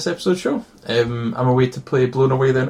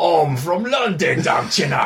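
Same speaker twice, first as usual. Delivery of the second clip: bad London accent; 3 semitones higher than usual. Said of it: "What bad accent are you going for?".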